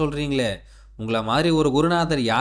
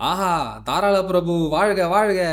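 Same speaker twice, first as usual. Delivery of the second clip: higher-pitched acclaim; exultant praise; 3 semitones higher than usual. Acted. Disciple hailing his generous guru, exultant. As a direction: hail your benefactor with gusto.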